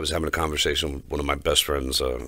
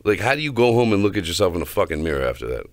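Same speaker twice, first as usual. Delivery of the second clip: raised, incredulous rant about a cheap date; a fired-up complaint, half laughing; heated rant; 4 semitones higher, 4 dB louder than usual. Real, not acted. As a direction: vent loudly, outraged at him. Ranting about a bad date.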